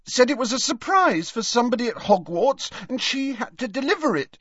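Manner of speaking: high, distraught voice building to a wail; tearful sobbing. A narrator's reading. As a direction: explain through rising sobs, upset. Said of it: "Leanne shook with renewed sobs".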